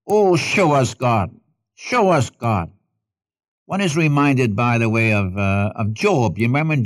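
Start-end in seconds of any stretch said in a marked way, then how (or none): 0.1-2.7 drawn-out plea, lightly acted; a touch of longing, slow on the opening; mild imitated cry. Preacher voicing people who long to see God, mild pleading cry. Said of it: "people cry".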